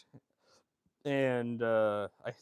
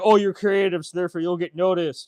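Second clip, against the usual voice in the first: mock preachy; 4 semitones higher, 7 dB louder than usual. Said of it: "He's like".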